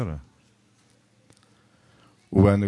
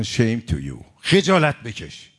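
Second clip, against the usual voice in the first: mock crowd yell, moderately raised; retold protest shout; slower than usual. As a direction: imitate protesters calling out in reproach. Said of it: "فریاد زدن".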